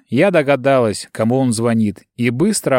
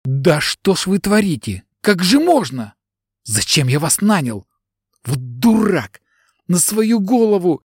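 hurt and angry; 5 semitones higher than usual. A narrator's reading. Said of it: "воскликнул с обидой и злостью".

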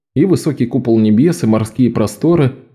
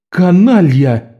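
slow furious roar, high and loud; 6 semitones higher, 4 dB louder, much slower than usual. A narrator's reading. Jean roars at Locke over the trick, furious. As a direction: bellow the insult at full force. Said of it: "взревел Жан".

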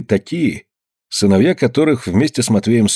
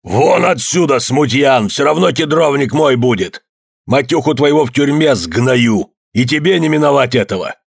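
furious yell; 4 semitones higher than usual. A narrator's reading. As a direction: drive the troublemaker out in fury. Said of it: "закричал".

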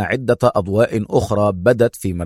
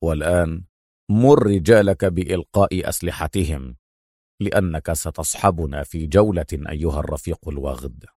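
hero; 6 semitones lower, 3 dB quieter than usual. A narrator's reading. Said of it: "استطرد أدهم قائلا".

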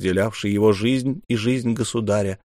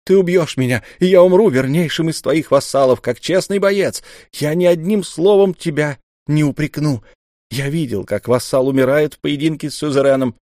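impassioned shout; 5 semitones higher, 4 dB louder than usual. Acted. Ra shouting, offering his life.

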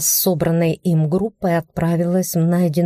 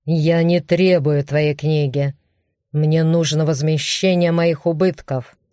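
restrained orc grunt. Acted. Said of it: "прохрюкал он чуть сдержаннее".

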